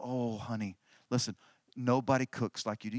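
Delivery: low and gently adoring; doting husband. Retold or imitated. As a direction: imitate a husband sweet-talking his wife. Doting old husband praises her cooking.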